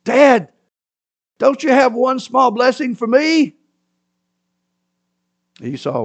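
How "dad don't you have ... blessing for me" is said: high pleading voice; high begging son. A narrator's reading. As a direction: plead with your father, pitched up. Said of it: "Esau begged his father".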